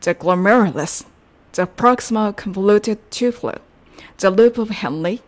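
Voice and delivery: slow, careful read of the practice sentence; deliberate classroom recap reading. Shown as a demonstration. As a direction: read each term slowly for learners. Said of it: "文章を一番最後に練習".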